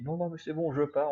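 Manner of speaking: mock friend's brush-off. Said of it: "la façon dont elle nous a dit".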